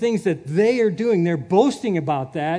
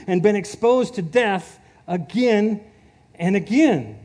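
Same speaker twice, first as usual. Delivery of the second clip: impassioned rant; 3 semitones higher, 4 dB louder than usual. Acted. Preacher voicing Paul ranting against the false teachers, loud and fired up. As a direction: preach Paul's boasting like a fired-up tirade. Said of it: "Paul's rant here".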